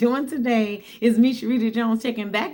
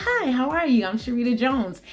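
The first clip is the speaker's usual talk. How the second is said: upbeat newcomer's introduction; cheerful greeting. Retold or imitated. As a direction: greet them brightly, retelling it. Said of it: "I said it so cheerfully".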